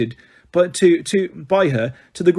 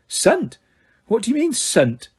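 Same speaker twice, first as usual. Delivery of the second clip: brisk, higher, stern McGonagall; snapped; 8 semitones higher, slower than usual. A narrator's reading. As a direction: snap at the student.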